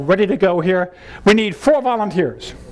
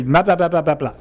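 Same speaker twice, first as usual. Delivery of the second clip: effortless babble; 2 semitones lower than usual. Shown as a demonstration. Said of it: "You don't wanna put any effort into it".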